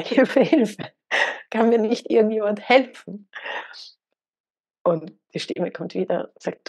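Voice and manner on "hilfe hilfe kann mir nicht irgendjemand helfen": higher, urgent mock yell for help; mock cry for help. Man clinging to the branch cries out again, higher mock shout. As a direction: cry out in panic, playing the scared man. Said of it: "und schreit wieder".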